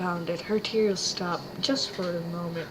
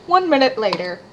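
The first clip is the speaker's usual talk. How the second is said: announcer voice; 4 semitones higher, 9 dB louder, faster than usual. Acted. Narrator time-skip card.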